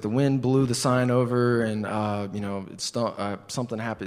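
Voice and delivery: hesitant, faltering explanation; stumbling excuse. Retold or imitated. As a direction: lose your nerve mid-lie. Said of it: "I was stumbling like this".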